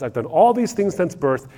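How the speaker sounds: pleased boast, acted out; super happy with himself. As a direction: mimic someone delighted with himself. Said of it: "He's super happy with himself".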